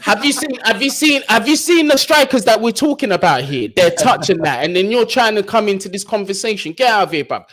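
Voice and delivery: high, loud disbelief at the strikers; incredulous outburst. Real, not acted. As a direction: have you seen them, rising in mock outrage. Mocking strikers' ambitions, incredulous.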